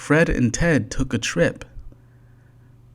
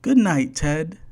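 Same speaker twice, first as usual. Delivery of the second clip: Fred's voice; 6 semitones higher than usual. A narrator's reading. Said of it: "said Fred".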